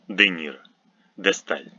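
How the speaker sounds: De Niro, De Stal with "deh", d unsoftened; hard D. Shown as a demonstration. Teacher giving prefix examples, hard d in De Niro, De Stal. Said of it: "It's pronounced e after a hard consonant".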